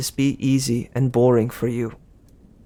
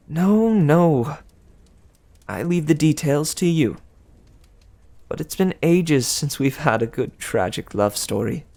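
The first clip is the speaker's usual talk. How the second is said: a touch of impatient higher goddess; irritable Aphrodite; 5 semitones higher than usual. Acted. Aphrodite waving off Percy's question, mildly irritable. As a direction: brush off the details lightly. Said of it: "waved her hand irritably".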